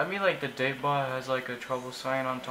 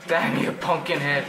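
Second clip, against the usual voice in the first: louder, cursing a game enemy in frustration; real gamer frustration, louder; frustrated outburst; 7 dB louder than usual. Real, not acted.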